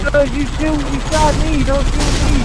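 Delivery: high, loud arguing; heated shouting. Real, not acted. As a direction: shout back at your teammate. Argues over friendly fire.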